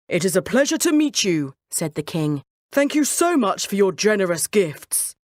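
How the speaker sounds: lightly voiced king, gracious. King greeting the Marquis, gracious. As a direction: thank him warmly as royalty.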